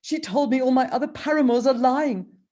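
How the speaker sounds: sultan voice. Acted.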